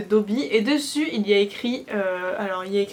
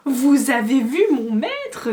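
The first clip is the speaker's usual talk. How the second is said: breathless, slow and loud elf gasp; panting; 3 semitones higher, 7 dB louder, slower than usual. A narrator's reading. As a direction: gasp out the question eagerly. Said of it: "d'un ton haletant".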